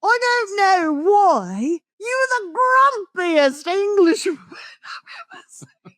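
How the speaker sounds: high, whispery giggling words; barely holding it together; laugh-crying. Real, not acted. Wife still laughing while calling him a grumpy Englishman.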